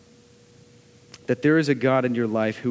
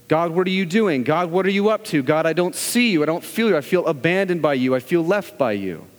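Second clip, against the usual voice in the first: anguished lament; 2 semitones higher than usual. Acted. Voices a believer's lament to God.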